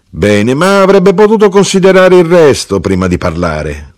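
high, insistent grievance; piqued complaint. A narrator's reading. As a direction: voice your wounded pride, pitched high. Mother complains about absent husband.

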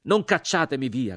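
high, loud entreaty; crying out. A narrator's reading. Rider begs not to be rejected, crying out. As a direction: shout a desperate plea.

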